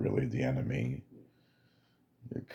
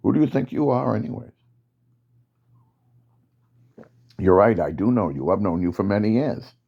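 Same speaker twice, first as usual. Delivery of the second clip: defiant soldier; 4 semitones higher than usual. Acted. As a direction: push back hard at the commander. Soldier defies the commander.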